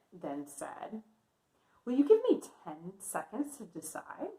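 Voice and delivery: put-on lively read-aloud for young kids; story narration. A narrator's reading. Teacher reading a picture book to kindergartners, lively narration. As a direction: read the story warmly to the class.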